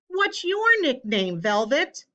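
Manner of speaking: high, loud call across the bus. A narrator's reading. A child on the bus calls out to Velvet, high and loud. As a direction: shout the question to her across the group. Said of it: "Somebody called out".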